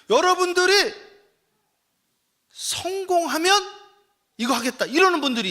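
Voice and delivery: high, loud, driving sermon delivery; full-force preaching. Acted. Pastor urging the congregation to act, loud preaching. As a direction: pound each phrase home to the pews.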